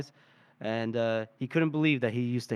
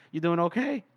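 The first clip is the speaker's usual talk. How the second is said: lightly imitated voice crack, lifting higher; 5 semitones higher than usual. Retelling a returned soldier greeting Feston, voice cracking. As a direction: ask it with a brief mock crack in the voice. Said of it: "His voice keeps cracking".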